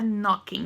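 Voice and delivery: "knocking" said as "nocking", no K sound at the start; silent K in knocking. Shown as a demonstration. Teacher showing students the silent K in "knocking". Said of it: "não pronuncia o K".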